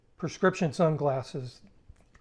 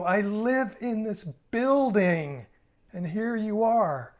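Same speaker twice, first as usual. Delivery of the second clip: menacing; 6 semitones higher, 6 dB louder, slower than usual. Retold or imitated. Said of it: "I go".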